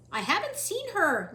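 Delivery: loud, high shout. Acted. Louise shouting at the cook. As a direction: yell it out in protest. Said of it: "Louise was shouting".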